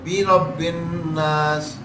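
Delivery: بی رب الناس slowly, short i on بی; slow correct recitation. Shown as a demonstration. Teacher showing the right vowel, slow careful reading. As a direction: stretch بی رب الناس out, keeping بی short. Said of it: "بے رب الناس نہیں ہے".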